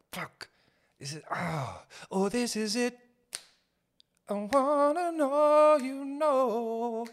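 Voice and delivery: high, strained, slowing panic; pleading with yourself as the date dies; panicked inner voice. Retold or imitated. Man on a failing date, voice climbing in panic.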